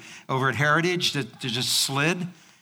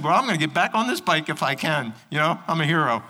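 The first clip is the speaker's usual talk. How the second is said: mock heroic. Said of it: "And I said".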